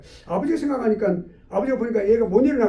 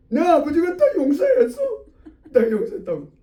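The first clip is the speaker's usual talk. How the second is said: put-on triumphant child; 8 semitones higher, 5 dB louder than usual. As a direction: boast defiantly of father's forgiveness. Child triumphantly defies the maid. (의기양양한 아이 목소리로 크게)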